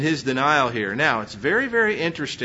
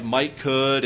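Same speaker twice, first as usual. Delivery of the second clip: Texas talk; 3 semitones lower than usual. Shown as a demonstration. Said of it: "Because I'm saying stuff like".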